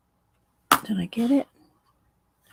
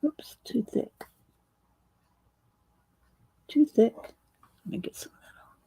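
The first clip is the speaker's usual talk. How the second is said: whispering while holding breath; 3 semitones higher, 6 dB quieter than usual. Real, not acted. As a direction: squeeze words out on held air. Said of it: "Hang on, guys, I'm holding my breath".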